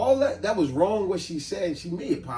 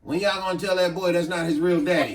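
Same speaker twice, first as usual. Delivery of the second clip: put-on drunk uncle voice through laughter; laughing drunk uncle; 3 semitones higher, 3 dB louder than usual. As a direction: blurt the secret like a tipsy uncle. Drunk uncle blurts secret.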